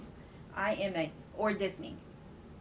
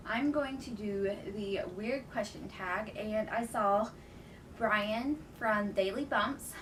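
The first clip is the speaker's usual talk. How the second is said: slightly winded, catching breath; 2 semitones higher than usual. Real, not acted. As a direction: talk while still panting a little. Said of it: "Sorry, I'm out of breath".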